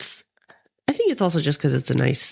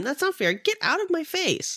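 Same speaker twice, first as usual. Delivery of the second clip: contained mock yell, pitched up; 10 semitones higher, 3 dB quieter than usual. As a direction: imitate a woman telling off a priest. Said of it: "like, yells at this priest".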